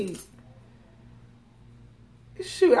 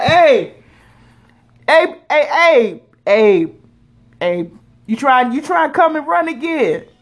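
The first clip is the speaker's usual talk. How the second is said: louder, teasing hey hey hey; mock calling out; 5 dB louder than usual. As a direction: knock and call into the grave, playfully. Calling to old candidates at graveyard.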